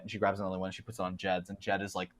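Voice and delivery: ordinary talk, nothing marked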